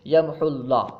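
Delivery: "یمحو اللہ" run together with short u; dropped letter (hazf). Shown as a demonstration. Teacher gives a hazf example, "یمحو اللہ" joined. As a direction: join "یمحو اللہ", leaving the waw silent. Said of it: "حذف، حرف کو ختم کرنا".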